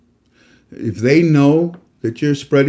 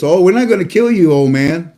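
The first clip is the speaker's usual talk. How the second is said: a hint of a sneering soldier, a bit louder; mocking soldier; 4 semitones higher, 4 dB louder than usual. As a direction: lightly taunt the old father as his killer. Preacher voicing cruel soldiers.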